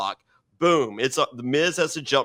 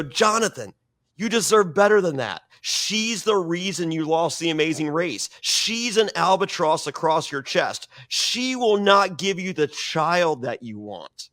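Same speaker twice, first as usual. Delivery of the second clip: mock persuasive taunt; 5 semitones higher than usual. Pitching Jonathan against his wife.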